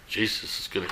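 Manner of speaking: soft, low parrot warning; quietly voiced parrot; hushed warning. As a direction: drop it to a hush. Parrot's warning repeated in joke.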